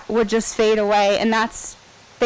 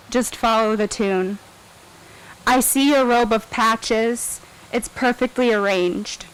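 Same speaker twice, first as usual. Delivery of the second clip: poem recitation. Acted. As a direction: read each line like a poem. Reads song lyrics aloud.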